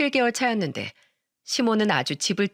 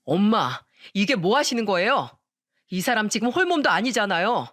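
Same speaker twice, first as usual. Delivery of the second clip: angry husband shouting. Acted. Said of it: "화를 내면서 소리쳤습니다".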